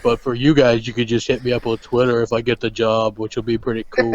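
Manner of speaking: lightly put-on deadpan drone; low, unhurried mock vlogger; impression of a drummer. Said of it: "doing Hellhammer the rest of the show".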